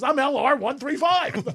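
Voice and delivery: high put-on voice, slowed; hammed-up high voice; mock client voice. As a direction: recite it like a proud regular. Repeating the account number joke.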